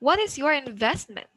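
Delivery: "What is your investment" going high, then down; rising-falling intonation. Shown as a demonstration. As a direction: model the question with a fall on "investment". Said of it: "We always go down".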